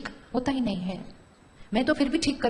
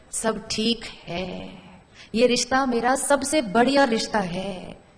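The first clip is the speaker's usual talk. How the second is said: calm affirmation; slower than usual. Shown as a demonstration. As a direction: say it slowly as a gentle blessing. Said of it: "अब मैंने एक एक thought create करना".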